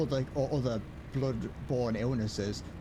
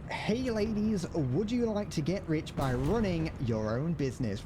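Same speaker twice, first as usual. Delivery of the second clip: mock salesman; 5 semitones higher than usual. Reads a spam pitch aloud.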